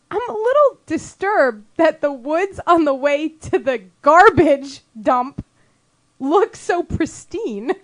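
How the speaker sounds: slow, stretched words; deliberate retelling, key words drawn right out; drawn-out mock concern. Telling friends about the dump woods, slow mock concern.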